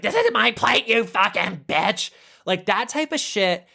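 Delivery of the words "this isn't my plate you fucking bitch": mock retort. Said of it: "Shannon goes back like".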